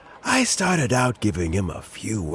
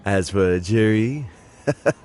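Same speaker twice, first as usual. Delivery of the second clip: fond chuckle. Acted. Fond memory of meeting Zhi Yi.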